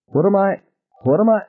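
high, trembling-with-outrage question; acted high-pitched agitation; agitated disbelief. A narrator's reading. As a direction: sputter it in rising panic. Ted trembling, outraged at Ann.

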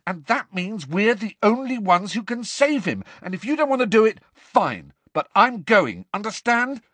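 high-pitched, heated tirade; angry shouted rant. A narrator's reading. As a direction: rant in mounting frustration. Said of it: "Harry shouted at her".

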